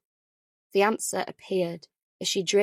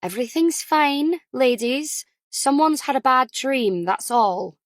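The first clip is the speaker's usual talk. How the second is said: pleasant but firm; 4 semitones higher, 4 dB louder than usual. Acted. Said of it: "pleasantly but firmly".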